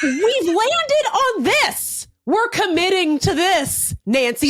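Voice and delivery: high, slow, laughing mock scold; hammed-up insistence, cracking up; mock stern scold. Hosts scolding Nancy about her painted rug, laughing mock stern.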